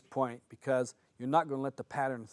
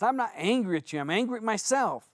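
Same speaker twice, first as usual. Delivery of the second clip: retold angry protest; 7 semitones higher, 4 dB louder than usual. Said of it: "he would just get so angry".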